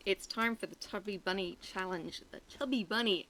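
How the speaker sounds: mouthful of marshmallows; cheeks stuffed full. Real, not acted. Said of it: "I can't even say it without marshmallows".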